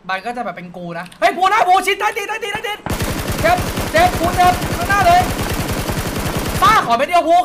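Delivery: frantic firefight callout yelled at the squad; callout shout. Shown as a demonstration. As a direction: yell the enemy position at your teammate. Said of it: "ถ้ากูตะโกนขนาดนั้นอะ".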